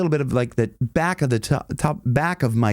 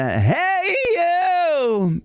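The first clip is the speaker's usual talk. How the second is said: high cracked yelp; head voice crack. Shown as a demonstration. Coach showing how the singer cracks into head voice. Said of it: "crack into".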